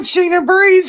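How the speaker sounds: gasping laugh through the words; breathless laughing plea. Real, not acted. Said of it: "I need some oxygen".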